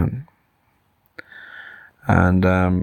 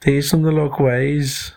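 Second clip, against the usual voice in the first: lightly voiced elephant, pitched up; a hint of a higher elephant character; 7 semitones higher than usual. Elephant insists on his lesson, lightly voiced and higher. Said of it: "said the elephant".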